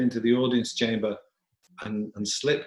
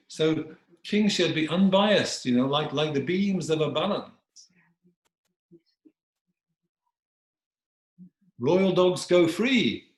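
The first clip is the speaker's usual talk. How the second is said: high, deliberate moral pronouncement; admonishing dog; 8 semitones higher, 3 dB louder than usual. Acted. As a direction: proclaim justice slowly to a ruler. Dog lectures king on justice.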